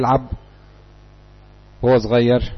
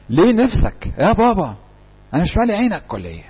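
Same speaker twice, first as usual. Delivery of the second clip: higher, mock-aggrieved questioning; protesting son; 5 semitones higher than usual. Son asking his father if he is not enough, protesting. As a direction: push back at a parent, lightly acted.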